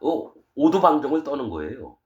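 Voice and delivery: normal talking voice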